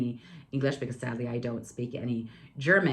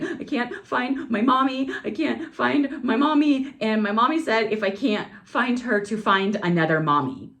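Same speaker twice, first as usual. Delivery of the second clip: put-on crying little boy; 7 semitones higher, 4 dB louder than usual. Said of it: "he's like".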